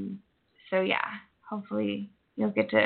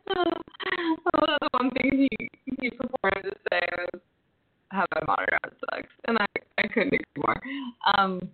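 glitchy, distorted connection; robotic distortion. Real, not acted. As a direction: voice clicking in and out like a robot. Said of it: "your voice is distorting".

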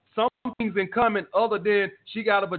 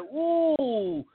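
mocking gullible fans; much slower than usual. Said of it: "and y'all guys like".

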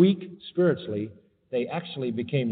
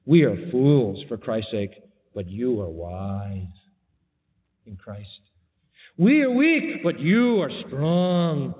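sarcastic; 2 semitones lower, slower than usual. Retold or imitated. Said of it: "watch how sarcastic he gets".

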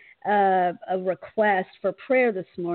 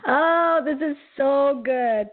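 excited; 4 semitones higher than usual. Real, not acted. Host moved by guest's words.

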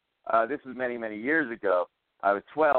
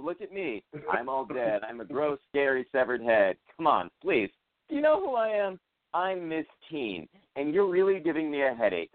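lightly voiced spoiled severed head; a hint of a haughty prom queen; lightly voiced bratty head; snooty dead teen. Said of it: "what she says".

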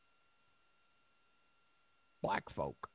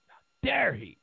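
whispered, scandalised gasp of a line; mock-horrified whisper; mock outraged whisper; 3 semitones higher than usual. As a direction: hiss it like a shocked gossip. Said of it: "Got everybody just beside themselves".

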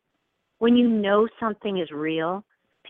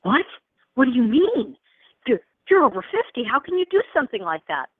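higher, disbelieving reaction; incredulous friends; 5 semitones higher than usual. Acted. Friends reacting to her moving at over fifty, mock incredulous. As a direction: imitate people taken aback by the plan. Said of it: "People were like".

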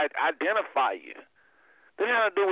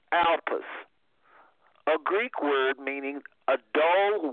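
slow, measured reading of a definition; careful, spaced-out reading; reading aloud; slower than usual. Acted. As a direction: read it out deliberately, phrase by phrase. Reads out a definition.

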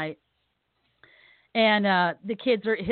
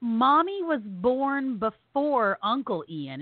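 put-on child's slow puzzle; 3 semitones higher, much slower than usual. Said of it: "And he goes".

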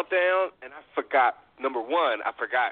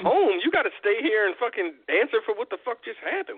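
mock outrage; 7 semitones higher than usual. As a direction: bark it like you caught him red-handed. Imagining scolding drunk driver.

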